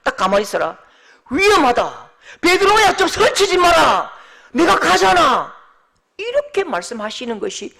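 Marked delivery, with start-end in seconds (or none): 0.0-5.6 loud, high scolding call; Jesus warning the overeager Peter, loud and stern. Pretend. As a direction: tell him firmly to stay put. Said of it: "예수님도 상식적으로".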